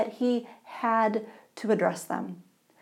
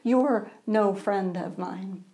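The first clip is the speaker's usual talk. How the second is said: angry; slower than usual. Acted. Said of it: "angrily walked away".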